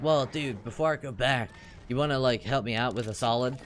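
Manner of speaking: a hint of a laid-back stoner; casual dude asking a favor. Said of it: "making everybody sound like a stoner".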